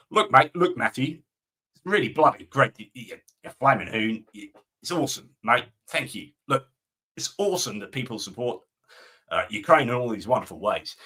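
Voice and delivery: put-on matey Australian accent. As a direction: do a hammed-up Aussie accent. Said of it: "please don't get him to do his Australian accent".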